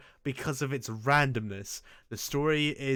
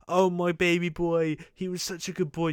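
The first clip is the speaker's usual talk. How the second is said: doting mother; 5 semitones higher, 3 dB louder than usual. Retold or imitated. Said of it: "just runs in like".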